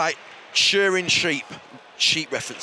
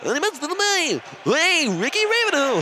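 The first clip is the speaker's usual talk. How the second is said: Chris Tarrant impression; 7 semitones higher than usual. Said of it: "in my Chris Tarrant".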